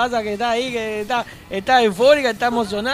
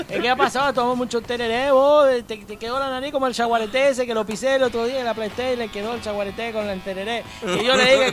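mock Paraguayan accent. Teasing the nasal Mexican in a mock Paraguayan accent. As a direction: ramble like a Paraguayan with a tereré. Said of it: "Estoy hablando guaraní".

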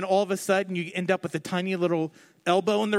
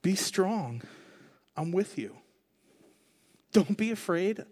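put-on softer, tender reassurance to a child; loving father; 4 dB quieter than usual. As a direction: comfort a frightened child gently. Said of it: "a loving father speaking words of comfort".

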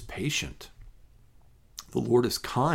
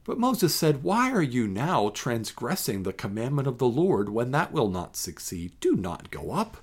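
measured, solemn Bible reading; scripture reading. Acted. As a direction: read the passage with weight and calm. Reads scripture passage aloud.

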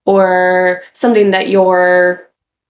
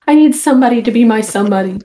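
whiny desperate single; 4 semitones higher, faster than usual. Pretend.

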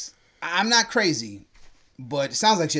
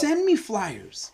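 drawn-out hushed request for flyers; slow whisper; 6 semitones higher, much slower than usual. Real, not acted. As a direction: whisper it slowly, almost pleading. Wishing for mailed flyers, not ads.

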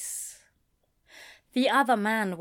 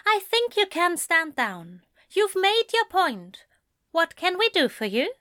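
softer tones; 9 semitones higher than usual. A narrator's reading. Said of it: "he said in far softer tones".

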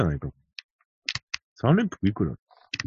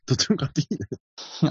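laughing softly while saying it; 4 semitones higher, 6 dB quieter, much faster than usual. Real, not acted. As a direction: chuckle through the words. Jokingly backing both horses. (笑いながら)

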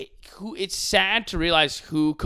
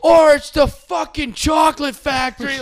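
higher, louder exasperated yell; exasperated shout; 13 semitones higher, 10 dB louder than usual. Retold or imitated. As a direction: blurt it out, fed up and loud. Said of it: "And he's like".

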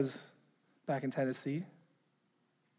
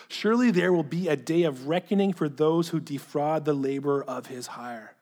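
emphatic reading, fading toward the end; letter read aloud. Acted. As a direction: read it out solemnly, easing down at the close.

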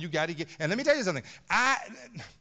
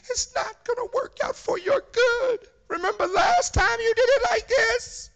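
high, loud warning cry, slow and pleading; screaming Holy Spirit; 6 dB louder than usual. Retold or imitated. Preacher voices the Holy Spirit screaming a warning at the congregation. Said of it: "The Holy Spirit was screaming at you".

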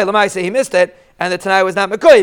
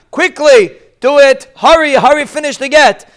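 higher, urgent mock shout of hurry; mock yelling; 4 semitones higher than usual. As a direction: act out the husband yelling to hurry up. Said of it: "gonna be yelling in your ears".

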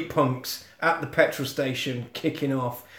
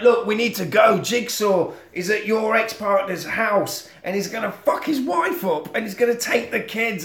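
higher-pitched, insistent warning; urgent Punisher; 6 semitones higher than usual. Acted. Vigilante warning cop about his ex-partner's family, urgently. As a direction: press the cop to act now.

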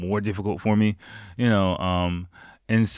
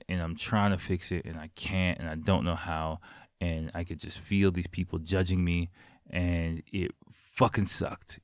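softer, subdued, slowing at the end; quietly reliving a painful memory; real hurt; 3 semitones lower, 6 dB quieter than usual. Real, not acted. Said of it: "you can probably hear it in my voice".

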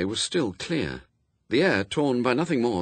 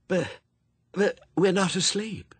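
put-on scared child; 10 semitones higher than usual. A narrator's reading. Frightened child protests.

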